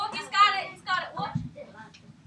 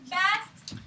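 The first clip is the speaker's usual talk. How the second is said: attempted British accent. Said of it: "mine doesn't really come up sounding British".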